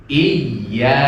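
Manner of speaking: "Iya" with the doubled y pressed and lifted in tone. Shown as a demonstration. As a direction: press the y of "Iya" so it rises above the rest. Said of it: "nadanya tinggi".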